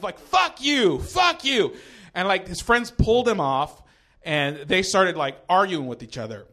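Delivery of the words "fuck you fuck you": high-pitched mock outburst; defensive. Comic acts out his reply to the boys, defensive yelp. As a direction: fire it back high, on the defensive. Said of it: "I just went defensive".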